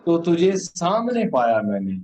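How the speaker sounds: solemn, measured poem delivery; stately nazm recitation. Acted.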